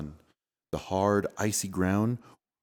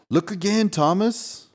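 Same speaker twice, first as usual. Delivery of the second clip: playful prompt; 11 semitones higher, 5 dB louder than usual. Acted. Gentle knowing prompt.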